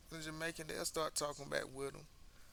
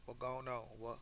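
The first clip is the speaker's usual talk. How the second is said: put-on tentative Jamaican accent; unpractised Jamaican imitation; broken Jamaican accent; 3 dB quieter than usual. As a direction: have a rough go at sounding Jamaican. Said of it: "you just heard my broken Jamaican accent".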